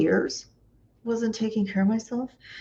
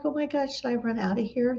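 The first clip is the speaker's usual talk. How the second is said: quick, higher-pitched retold panic; panicky; 4 semitones higher, 4 dB quieter, faster than usual. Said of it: "I start to go into a panic".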